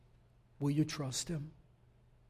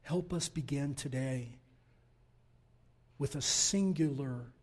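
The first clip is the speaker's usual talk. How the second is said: prayer. Acted. Closing prayer.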